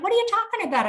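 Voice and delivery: high, outraged squeak of disbelief; can't believe what she's hearing; Sally stunned to learn she can't sign; shocked disbelief. Retold or imitated. Sally shocked at bad news.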